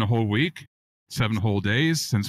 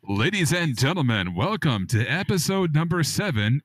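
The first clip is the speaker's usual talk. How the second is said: radio host voice. Acted. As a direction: open the show like a radio DJ. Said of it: "do a sexy radio voice person".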